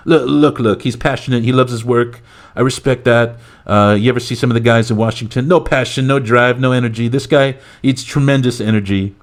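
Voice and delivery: mock politician brushing off a question; Donald Trump. President rebutting the CNN reporter, blustering parody. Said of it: "current President Donald Trump".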